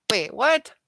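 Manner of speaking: sudden loud, high "wait, what?"; surprised. Real, not acted. Streamer reacting to a chat number, startled. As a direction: caught off guard by the figure.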